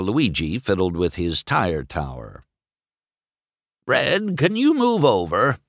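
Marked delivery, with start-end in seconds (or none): 3.9-5.6 put-on raised, higher old-woman call; lightly voiced croaking old Lizzie. A narrator's reading. Old Lizzie calling from her shop porch, croaking. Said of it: "old Lizzie croaked from the porch".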